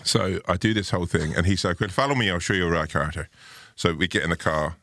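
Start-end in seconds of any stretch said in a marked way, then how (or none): 1.8-3.3 imitated Mayo local, lifting at the start; Mayo accent. Petrol station man offering to lead the way, Mayo accent. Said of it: "I'm gonna do this accent".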